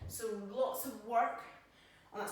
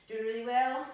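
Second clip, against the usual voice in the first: loud cheering praise; encouraging call; 9 dB louder than usual. Real, not acted. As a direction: cheer them on mid-set. Coach encouraging mid-set.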